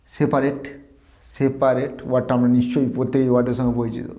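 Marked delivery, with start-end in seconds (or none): 0.1-2.0 সেপারেট in three syllables, "se-pa-ret"; common mispronunciation. Shown as a demonstration. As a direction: say সেপারেট with a full "pa". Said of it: "এটাকে আমরা বলি". (ভুল সেপারেট, "সে-পা-রেট")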